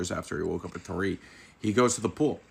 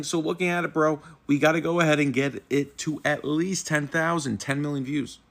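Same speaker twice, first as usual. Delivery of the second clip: raised, lively reading of the viral quote; quoting the meme line; 6 semitones higher than usual. Retold or imitated. Vlogger reading a viral quote tweet to viewers, amused. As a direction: read the tweet out like a meme caption. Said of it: "quote tweets saying".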